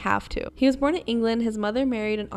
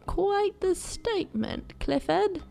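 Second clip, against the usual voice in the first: mock scolding; 10 semitones higher, slower than usual. Real, not acted.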